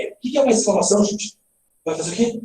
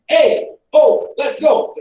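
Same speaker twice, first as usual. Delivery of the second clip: high, punchy interjections; exclamations; 5 semitones higher, 4 dB louder, much slower than usual. Shown as a demonstration. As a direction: call out to rouse people. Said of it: "Exclamação".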